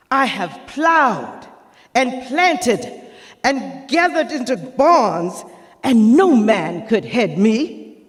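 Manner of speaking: high, proud orator's build to the question; Sojourner Truth. Acted. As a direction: list the labour with pride, then land the question. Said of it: "to portray Sojourner Truth".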